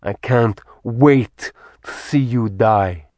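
slow, relishing villain threat; gloating villain. Acted. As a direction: savour every word of it.

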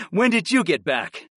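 laughing, delighted surprise; surprised. A narrator's reading. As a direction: greet an old friend with a laugh. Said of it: "I asked him in surprise".

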